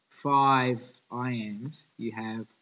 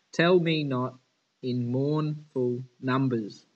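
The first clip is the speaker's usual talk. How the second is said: "Tell me not in mournful numbers" punched on tell, not, mourn and num; stressed trochaic line; 5 dB louder, slower than usual. Shown as a demonstration. Teacher showing the class trochaic meter, stressed. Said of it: "The tell me, uh, the not and the mourn".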